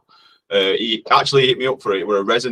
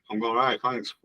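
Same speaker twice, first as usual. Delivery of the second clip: whispered, voiceless and soft; mock-secretive whispered thanks; playful whisper; 7 dB quieter than usual. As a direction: breathe the reply like a secret. Repeats greeting in a whisper.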